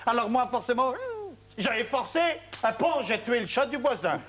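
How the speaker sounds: put-on high-pitched blubbering child's voice; hammed-up, high little-boy whine; mock tearful boy. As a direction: imitate a son confessing through tears. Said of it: "Il est arrivé comme ça, tout en pleurs".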